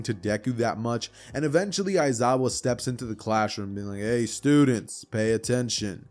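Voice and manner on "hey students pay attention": slow, drowsy drawl of a tired teacher; barely awake, dragging the words out slowly. Acted. Sleepy teacher Aizawa telling the students to listen, slow and drowsy.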